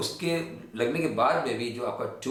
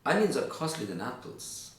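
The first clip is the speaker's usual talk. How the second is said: slow, clear drill with rising start; slow repeat-after-me; 4 semitones higher, much slower than usual. Shown as a demonstration. Teacher leads students in slow choral repetition. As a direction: say it slowly for the class to echo. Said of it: "चलिए".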